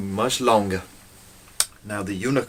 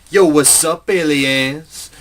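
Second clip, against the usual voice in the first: cocky greeting; 5 semitones higher, 3 dB louder, slower than usual. Retold or imitated. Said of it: "And he's like".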